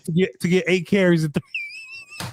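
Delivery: a lightly put-on Turpin voice with long dragged TH sounds. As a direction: drag the TH sounds like Turpin, slow and lazy. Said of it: "Why you talking like that?".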